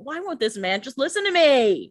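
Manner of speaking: mock exasperated outburst, pitch swooping up; lightly acted fed-up plea. Klaus exasperated in retold scene.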